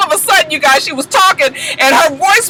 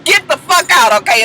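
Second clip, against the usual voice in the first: steadier, barely raised, tidy dismissal; neat and cool; 3 semitones higher than usual. Retold or imitated. Baby Knees closing the door on Jock, cool and neat. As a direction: say it like it's settled. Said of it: "she real neat with it".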